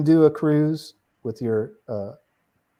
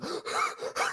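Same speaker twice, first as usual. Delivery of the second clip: imitated gasp; 11 dB quieter than usual. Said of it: "He goes".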